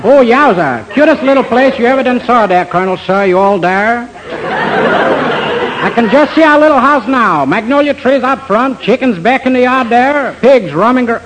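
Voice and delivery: overdone fake Southern charm; fake Southern accent. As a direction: play a phony Southern gentleman. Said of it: "pardon by me the southern accent".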